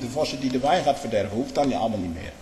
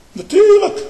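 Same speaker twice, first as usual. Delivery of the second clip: scornful high cry; 10 dB louder, slower than usual. Real, not acted. Preacher's scornful exclamation.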